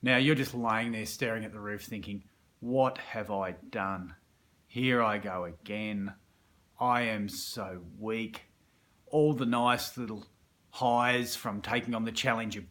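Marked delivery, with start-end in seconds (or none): 2.6-8.4 self-reproach. Retold or imitated.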